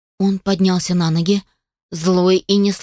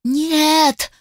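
anguished scream; 8 semitones higher than usual. A narrator's reading. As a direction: scream it out as he is struck. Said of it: "Полина закричала". (отчаянный крик «Нет!»)

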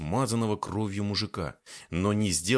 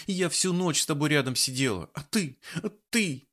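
tearful; 7 semitones higher than usual. A narrator's reading. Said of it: "расплакалась".

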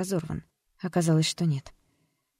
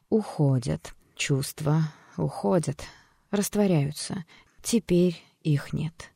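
calm therapist voice. Acted. Doctor calmly guiding the patient out of hypnosis, soothing. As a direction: lull the patient gently out of the memory.

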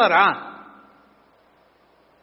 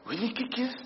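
sarcasmo; 5 semitones higher, 8 dB quieter than usual. Real, not acted. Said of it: "estoy siendo muy sarcástico".

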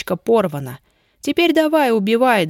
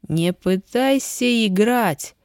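hissing; 2 semitones higher, slower than usual. Acted. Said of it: "прошипел некромант".

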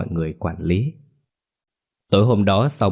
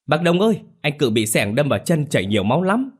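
much higher, urgent shouted call; crowd calling out; 7 semitones higher than usual. A narrator's reading. Villagers call to Đông about the injured man, shouting. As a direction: cry out for help to the elder. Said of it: "mọi người hô lên".

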